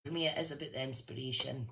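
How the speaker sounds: Fife Scottish accent slipping out. Real, not acted. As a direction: speak in a natural Fife accent. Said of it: "my Fifer accent's coming out there".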